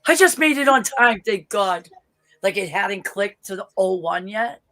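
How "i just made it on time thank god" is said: higher, louder relieved cry; relieved exclamation. Retold or imitated. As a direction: rush it out, just made it. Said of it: "I was like".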